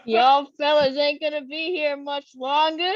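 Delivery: lightly put-on Southern accent. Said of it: "A Southern accent".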